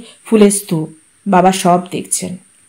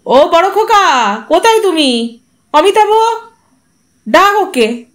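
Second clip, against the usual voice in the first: calling out; 7 semitones higher than usual. A narrator's reading. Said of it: "হাঁক দিলেন তিনি".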